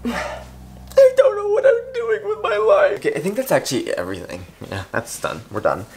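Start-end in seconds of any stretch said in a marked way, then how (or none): 0.0-3.0 high, slow, wailing mock sob; mock despair. Vlogger fake-crying over her reading life, mock sobbing. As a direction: wail it like a dramatic breakdown.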